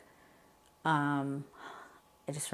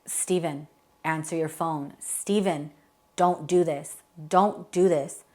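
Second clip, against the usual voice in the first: retold yelling; 6 dB louder, slower than usual. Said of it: "all I remember was yelling".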